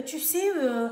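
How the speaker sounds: mock white Parisian French accent with drawn-out euhs; imitated white French accent. African woman mocking newcomers who say they live in Paris, imitated white French accent. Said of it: "On veut imiter l'accent des Blancs".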